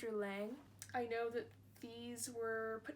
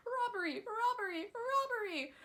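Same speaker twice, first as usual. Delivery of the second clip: mother echoing the shout, high and loud; retold cry; 10 semitones higher, 5 dB louder than usual. A narrator's reading. Mother retelling the cry to her son, high and loud. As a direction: cry it out as she heard it. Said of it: "a voice cried out".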